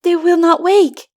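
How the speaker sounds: put-on child on the edge of tears; boy tells the narrator in worry; troubled child. A narrator's reading. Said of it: "began to look troubled".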